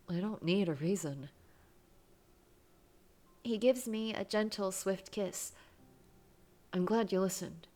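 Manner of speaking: reading a romance game aloud, lightly voiced; expressive read-aloud of a love story. A narrator's reading. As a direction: narrate the scene with gentle feeling. Reads visual novel aloud.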